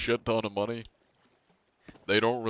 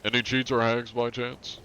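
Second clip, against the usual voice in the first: mock polite questioning; 4 semitones higher, 3 dB louder than usual. Same interrogation repeated.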